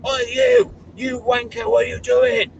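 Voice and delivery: high, loud mock yell; shouted insult from a passer-by, hammed-up; retold abusive shout. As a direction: yell it like a stranger hurling insults. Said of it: "somebody goes like".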